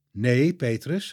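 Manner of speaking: slow, firm no; stern. Acted. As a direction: stop him firmly and slowly. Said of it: "zegt Jezus streng". (streng en langzaam)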